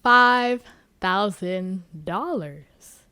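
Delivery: slow, weighty bid; slow announcing voice; bold bidder. Retold or imitated. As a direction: drop the bid slowly like a bombshell. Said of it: "bid yet says".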